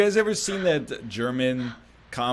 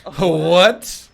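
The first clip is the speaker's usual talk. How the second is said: surprised; 3 semitones higher, 9 dB louder than usual. Real, not acted. Reacting to a surprise.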